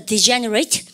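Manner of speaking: "degenerate" with a clearly marked word stress; stressed syllable demo. Shown as a demonstration. Teacher models "degenerate" for students to repeat, with marked stress. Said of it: "여기다 강세 때리고요".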